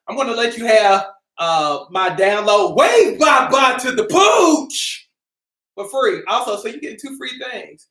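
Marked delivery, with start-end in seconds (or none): 2.7-5.1 hyped product name. Acted. Plugs his download title.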